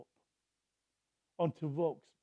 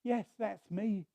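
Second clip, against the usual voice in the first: calm God voice; 4 dB quieter, slower than usual. Retold or imitated. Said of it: "said God".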